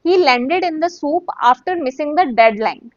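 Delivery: slow, careful teacher read; slow model sentence. Shown as a demonstration. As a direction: read slowly and clearly, word by word. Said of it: "आप ये कह सकते हैं".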